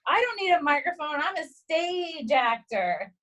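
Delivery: mock stage projection, drawn out at the end; imitated theatrical yell. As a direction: imitate an actor projecting without a mic, stretching the last words. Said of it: "he drops the microphone and yells".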